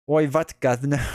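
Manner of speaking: hammed-up mock British greeting; bad British accent. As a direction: badly fake a British accent. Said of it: "you're not gonna hear the British accent".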